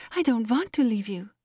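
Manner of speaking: a mild, plaintive whimper. A narrator's reading. Melancholy Molly fears being sent away, whimpering. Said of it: "whimpered melancholy Molly".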